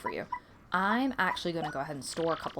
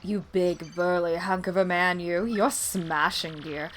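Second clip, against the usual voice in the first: higher, flirty purring tease; Miz Mouse; 5 semitones higher, 3 dB louder than usual. Acted. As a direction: flirt shamelessly with the hunk. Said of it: "Hey, Miz Mouse".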